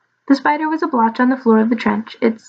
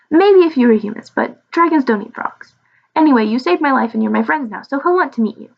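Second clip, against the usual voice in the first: reassuring little dragon; 2 semitones higher than usual. Acted. Little dragon reassures his new frog friends, lightly eager. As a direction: reassure them in a lilting creature voice.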